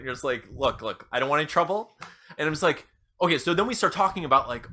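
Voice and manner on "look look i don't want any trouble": understated, placating roommate; playing it cool. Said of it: "you're totally being cool about it".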